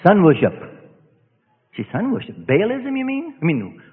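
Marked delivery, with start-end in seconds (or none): 0.0-0.5 spirit voice. Retold or imitated. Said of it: "that spirit out of him said".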